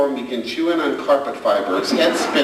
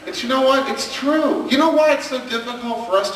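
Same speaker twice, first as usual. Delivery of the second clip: raised excited emphasis; 10 semitones higher than usual. Real, not acted. Emphatic point to parents.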